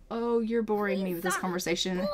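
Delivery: dismissive line broken by laughter; laughing mock boredom. Grandmother dismissing the granddaughter, laughing. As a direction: brush her off while laughing. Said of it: "She's like".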